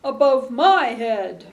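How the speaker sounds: loud, high ma-ma-ma; slow, loud baby babble; cooing baby. Acted. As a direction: coo the ma's up high like a baby. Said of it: "A baby is cooing above my head".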